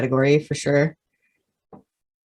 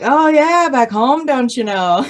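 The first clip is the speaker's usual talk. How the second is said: put-on Minnesotan accent; 8 semitones higher, 4 dB louder than usual. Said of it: "her Minnesotan accent comes out".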